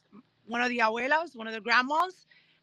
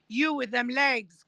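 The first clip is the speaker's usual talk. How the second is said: drawn-out, louder call across a crowd; retold holler to get someone's attention; 3 semitones higher, 5 dB louder, slower than usual. Retells woman calling across crowd.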